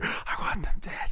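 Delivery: slow, airy stage whisper. Acted. Whispering a secret request in his ear, hushed. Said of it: "he whispers in his ear".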